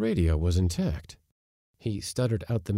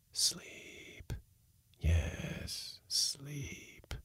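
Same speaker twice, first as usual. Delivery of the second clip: eerie drawn-out whisper; whispering voices; 7 semitones higher, 10 dB quieter, much slower than usual. A narrator's reading. Hidden voices lull the man to sleep, whispering. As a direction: whisper it very softly, lingering. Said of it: "The voices whispered".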